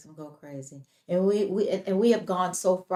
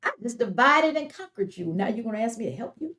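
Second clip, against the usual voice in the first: higher-pitched, incredulous comeback; mock indignant Satan; 3 semitones higher, faster than usual. Satan answering people who ask for help, mock indignant. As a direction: play the affronted devil turning down a plea.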